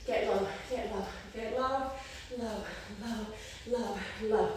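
strained and breathless mid-exercise; working hard, out of breath. Real, not acted. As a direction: push the words out through the burn. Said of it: "this is so hard".

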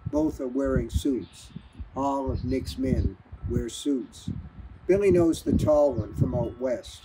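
steady, measured audiobook reading; calm storyteller narrating a crime novel; story narration. A narrator's reading. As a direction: read the novel aloud to listeners. Author reads novel aloud.

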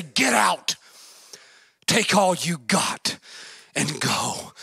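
low, slowing resigned dismissal; weary giving in. Acted. Pharaoh gives in after the plagues, wearily resigned.

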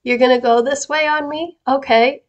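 playful mock disbelief, lifting in pitch on the challenge; lightly amused, joking challenge. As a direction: tease them with an imitated "oh, is that so". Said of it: "He turns it into a joke sometimes".

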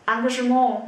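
Engagement ending in a long, loud "-MOH"; final O sound. Shown as a demonstration. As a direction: show "Engagement" as "ahn-gah-zhuh-MOH", falling. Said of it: "âm cuối của chúng ta phát âm là O".

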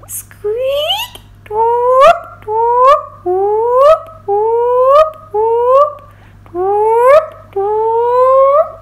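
loud high whale calls; whale song. Acted. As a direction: belt out a joyful whale song. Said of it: "sing his first whale song".

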